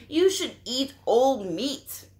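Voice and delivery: high, loud vulture line. Acted. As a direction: croak it like a hungry vulture. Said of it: "that's coming from Marabou the vulture".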